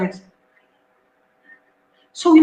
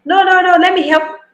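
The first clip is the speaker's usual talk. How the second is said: mock fussy parent; 6 semitones higher than usual. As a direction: rush in like an overprotective mom. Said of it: "But you say".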